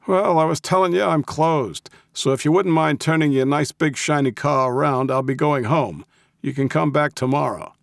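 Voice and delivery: high-pitched, cranky brush-off; crabby old man. A narrator's reading. Old man dismissing the Russian and his car, crabby. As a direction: send them away in a crabby old voice. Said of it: "his best crabby old man voice".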